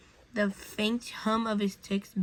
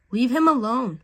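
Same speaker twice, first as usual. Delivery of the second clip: firm; 4 semitones higher, 8 dB louder than usual. A narrator's reading. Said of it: "The voice was soft, yet firm".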